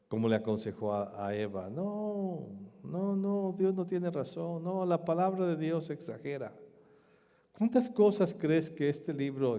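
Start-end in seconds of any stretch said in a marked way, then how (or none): 1.7-6.5 voice of the worldly tempter. Retold or imitated. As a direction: sneer it like the world mocking God's word. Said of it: "el mundo te aconseja".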